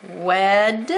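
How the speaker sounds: "Wed" said with the silent d sounded; spelling pronunciation. Shown as a demonstration. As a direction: say "Wed" as its own syllable, d sounded. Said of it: "I have to say it this way".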